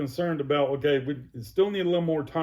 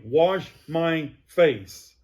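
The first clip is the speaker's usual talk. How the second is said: slow, louder command; stern order; 2 semitones higher, 5 dB louder, much slower than usual. Retold or imitated. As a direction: spell out each word like an order. Chewing out night-shift nurses.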